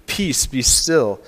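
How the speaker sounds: stretched out, very slow and calm; slow calm command. Retold or imitated. Preacher voicing Jesus calming the sea, slow and calm. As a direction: draw out each word like a calm command.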